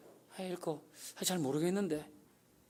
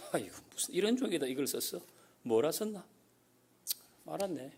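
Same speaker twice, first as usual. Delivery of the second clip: quick, offhand, dismissive mutter; careless dismissive reading; 2 semitones lower, 8 dB quieter, faster than usual. Pretend. Careless reader scoffing at a love letter, quickly. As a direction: brush the letter off like it's nothing. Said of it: "이렇게 하는 사람은 없잖아요".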